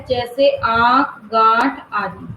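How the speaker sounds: आंख and गांठ drawn out slowly, vowel through nose and mouth; nasal vowel demo. Shown as a demonstration. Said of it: "इसका उच्चारण कहाँ से होता है? नाक और मुंह से".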